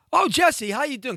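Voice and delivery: high, bright voice of the agent's wife greeting him; sweet greeting. Retold or imitated. Wife greets Jesse sweetly, high voice.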